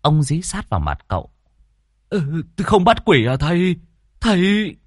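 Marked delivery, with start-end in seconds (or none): 2.1-4.8 higher, pleading master!; frightened host begging the exorcist to catch the ghost; frightened plea. Acted. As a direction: press close and beg in alarm. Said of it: "Ông Đòn hãi hùng".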